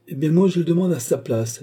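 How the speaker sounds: high, forceful interjection; bold challenge. A narrator's reading. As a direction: pipe up boldly on someone's behalf. Richelieu boldly steps in.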